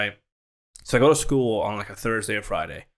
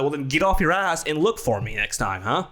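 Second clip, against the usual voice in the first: higher-pitched retold comeback; indignant retort; 5 semitones higher than usual. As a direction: throw it back at him, worked up. Retold argument with teacher marking absences.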